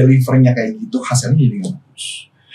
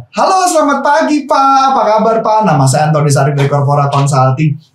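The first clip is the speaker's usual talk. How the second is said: friendly relaxed greeting. Shown as a demonstration. Coach demoing a relaxed friendly phone opening, warm. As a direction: greet him like an old friend. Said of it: "dengan nada intonasi yang berbeda".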